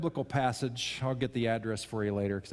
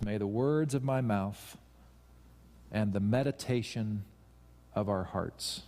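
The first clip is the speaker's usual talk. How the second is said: slow prayerful recital; 3 semitones lower than usual. Shown as a demonstration. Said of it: "if that is our tone".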